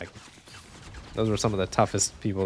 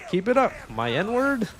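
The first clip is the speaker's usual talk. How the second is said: mock Vince McMahon; 11 semitones higher, slower than usual. Vince McMahon quote retold on stream.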